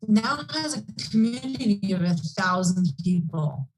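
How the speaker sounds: choppy call audio cutting out; breaking up. Real, not acted. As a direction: voice dropping out on a bad line. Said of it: "you're breaking up a bit".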